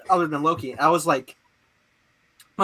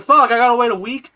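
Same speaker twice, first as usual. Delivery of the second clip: mock frustration; 7 semitones higher, 10 dB louder than usual. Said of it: "I'm like".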